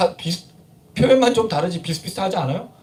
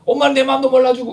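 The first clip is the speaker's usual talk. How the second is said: put-on complaining child; 4 semitones higher, 4 dB louder than usual. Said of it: "애가 막, 아, 막 울고 있는데".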